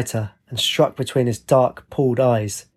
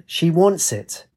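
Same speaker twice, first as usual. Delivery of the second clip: higher, drawn-out mild growl; 6 semitones higher, slower than usual. A narrator's reading. Attacker gripping her wrist, slow mock growl. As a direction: stretch it out as a slow taunt. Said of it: "he growled".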